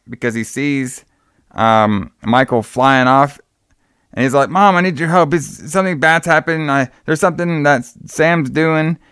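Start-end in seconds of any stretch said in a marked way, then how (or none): 4.5-9.0 mock panicked call, pitched high; hammed-up urgency, settling down by the end; imitating a scared kid begging mom for help; freaking out. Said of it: "he's basically freaking out".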